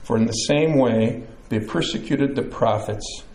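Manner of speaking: measured Bible reading, each verse falling at its close; scripture reading. A narrator's reading. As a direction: read the Beatitudes aloud to a congregation. Reads the Bible passage aloud.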